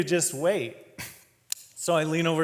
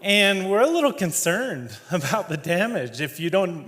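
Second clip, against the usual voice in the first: laughing; 4 semitones higher than usual. Real, not acted. Laughing through the story.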